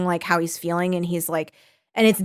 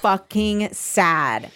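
very slow, stretched-out lament; drawn-out dismay; much slower than usual. Real, not acted. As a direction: stretch each word in real dismay. Reacting to the horse's death.

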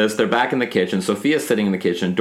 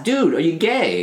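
slow, casual blunt ask; just ask straight out, slowly; blunt question; 7 semitones higher, slower than usual. Shown as a demonstration. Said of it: "You just ask".

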